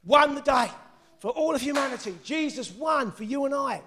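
high, loud triumphant preaching, easing in volume at the end; shouting preacher. Real, not acted. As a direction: shout out the victory, drawing out the words. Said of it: "Sorry, I'm shouting".

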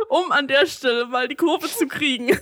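barely holding back a laugh; stifled giggles. Real, not acted. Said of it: "ich darf jetzt nicht lachen".

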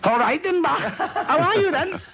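high-pitched mock Scottish auntie; auntie's Scottish accent. Shown as a demonstration. Imitating an auntie's greeting, high Scottish accent. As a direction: squeak it out as a Scottish aunt. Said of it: "and she speaks rather like that".

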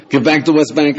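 firm, confrontational statement; argumentative claim. Retold or imitated. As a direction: state it like you're picking a fight. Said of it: "You wanna say".

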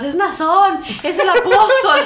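hammed-up excited announcement; imitating women behind her crying out the news; excited quote. Quoting sisters behind her.

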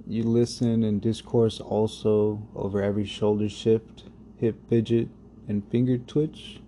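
spoken-word poem, unhurried; poem recitation. Acted. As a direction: let each image land with pauses. Reads his poem over music.

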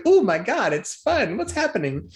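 high, breathless mock excitement; giddy anticipation. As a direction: imitate a giddy kid, pitch way up. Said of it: "He's like".

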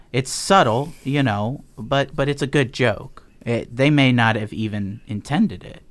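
mildly gleeful retold villain; amused killer. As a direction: explain the joke with lifted, lively insistence. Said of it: "and he's just laughing".

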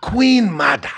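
Black Panther voice. Acted. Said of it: "Hating on my T'Challa".

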